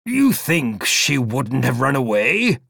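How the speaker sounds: put-on dreamy old gentleman searching his memory; vague old man.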